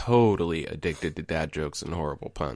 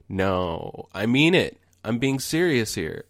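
imitated exasperated wife, voice rising higher; mock yell, only partly raised; retold scream; 4 semitones higher, slower than usual. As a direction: build from a plain "no" to a raised, insistent protest. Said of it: "And she screamed at me".

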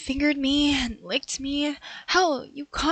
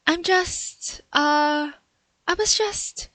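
higher, louder, stumbling excuses; flustered stammer; 3 semitones higher, 4 dB louder, much slower than usual. Acted. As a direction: scramble for a story that won't come. Fumbling excuse when caught.

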